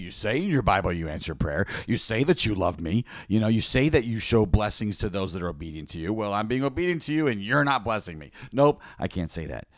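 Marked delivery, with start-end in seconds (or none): 0.0-7.3 cocky sarcastic. Retold or imitated. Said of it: "kinda cocky and, and sarcastic". 7.3-8.3 sarcastic complaint. Retold or imitated. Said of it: "kinda cocky and, and sarcastic".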